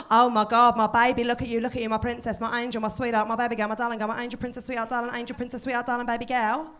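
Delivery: lightly voiced fussing mother; doting mum impression. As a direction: smother her in a run of pet names. Mum fussing over heartbroken daughter.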